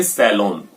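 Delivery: सैलून said as "sa-LON", with an O; सैलून ending in "lon"; model O pronunciation. Shown as a demonstration. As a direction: put an O, not OO, in सैलून. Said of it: "इसको आप बोलेंगे सैलून".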